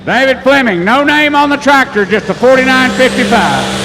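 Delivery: excited announcing. Real, not acted. Announcing a new puller.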